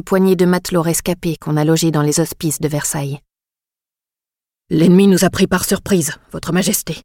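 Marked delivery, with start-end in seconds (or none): 4.7-7.0 flustered noble stammering excuses. Acted. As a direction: blurt it out, losing composure. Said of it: "bafouille le plus massif des immortels".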